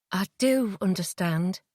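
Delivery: slow, gentle and soft; softly. Acted. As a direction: soothe him gently. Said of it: "I said softly".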